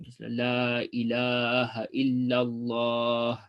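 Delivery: La ilaha illallah drawn out slowly, half-sung; slow chanted La ilaha illallah; elongated dhikr. Shown as a demonstration. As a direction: stretch the illallah long and melodic, as in dhikr. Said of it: "you emphasize the elongation".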